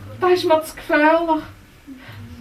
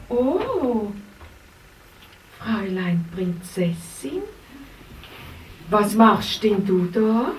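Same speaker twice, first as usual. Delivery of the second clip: kindly helper Racontino; 3 semitones lower than usual. Acted. Racontino comforting the princess, lower and gentle. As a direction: talk gently to the lost princess.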